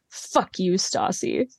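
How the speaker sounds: low, quiet retold venom; imitating a hateful jab, understated. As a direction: spit it softly, with contempt. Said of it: "with a hateful".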